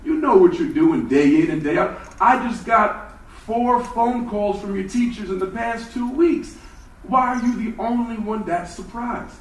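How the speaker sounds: a rising, exasperated father; father scolding Jeff over his report card, rising exasperation; stern father. Retold or imitated. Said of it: "he would say".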